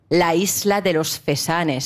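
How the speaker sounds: showy Spanish pronunciation; theatrical Spanish accent. Shown as a demonstration. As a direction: say the Spanish name in a put-on Castilian accent. Shows off Spanish accent again.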